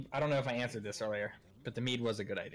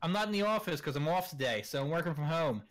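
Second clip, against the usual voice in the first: put-on Pennsylvania accent; 3 semitones higher than usual. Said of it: "she was like".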